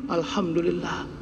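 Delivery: 1 syukur lembut. Shown as a demonstration. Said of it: "Jangan cemanalah".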